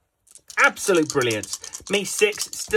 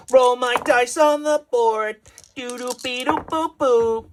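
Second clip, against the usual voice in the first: higher, slow goofy character voice, scatting; silly player voice; 6 semitones higher, slower than usual. Acted. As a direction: play the dice guy as a dopey cartoon.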